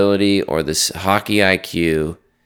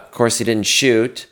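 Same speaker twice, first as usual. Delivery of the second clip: ordinary talk, nothing marked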